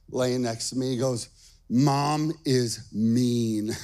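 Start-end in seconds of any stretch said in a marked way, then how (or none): 1.7-3.7 very slow, sulky little-boy pronouncement, imitated; angry, tearful child. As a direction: imitate a pouting child, dragging each word. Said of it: "tears streaming down his face".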